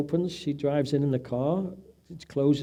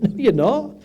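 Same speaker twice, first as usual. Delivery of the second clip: firm; 8 semitones higher, 8 dB louder than usual. Retold or imitated. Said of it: "I'm like".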